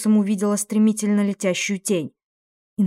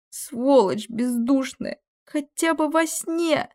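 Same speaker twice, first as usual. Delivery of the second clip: slow, pleading cry rising high; anguished cry; 6 semitones higher, much slower than usual. Acted. Kes cries out at the heartless demon, slow and anguished. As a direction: wail it slowly, heartbroken.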